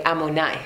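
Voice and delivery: Ammonai said ah-moh-NAI with an m sound; Sephardic pronunciation. Shown as a demonstration. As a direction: model Ammonai as Sephardic Jews say it. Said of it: "In Sephardic, they say".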